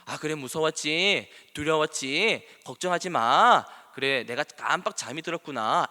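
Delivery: gently acted counselling response; empathetic reassurance. Shown as a demonstration. Counsellor demonstrating empathy to a frightened person, reassuring. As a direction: soothe someone who is scared, sympathetically. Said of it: "공감부터 해라고 배웁니다".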